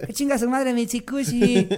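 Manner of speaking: vítores agudos y alargados; porra del salón. Acted. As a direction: celebra a gritos como el grupo entero. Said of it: "Todos al maestro". (ovación burlona, fuerte)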